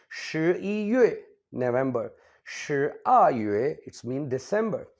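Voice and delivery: slow, careful Mandarin month names; Chinese month names. Shown as a demonstration. Teacher reading out months to the class, slow and careful. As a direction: say each month slowly in Chinese, then English. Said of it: "teacher reads Chinese month names".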